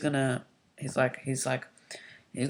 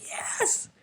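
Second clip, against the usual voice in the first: laughing yes; 4 dB quieter than usual. Real, not acted. Fan reacting to announced match.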